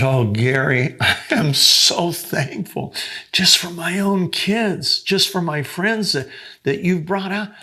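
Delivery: a light laugh while giving thanks. Retold or imitated. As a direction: giggle out your thankfulness. Woman laughing through thanks.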